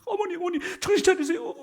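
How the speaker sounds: high, urgent mock plea to a fainted mother-in-law; frantic daughter-in-law. Daughter-in-law begging fainted mother-in-law to wake, high and urgent. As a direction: call her back, pitched high. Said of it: "며느리가 막".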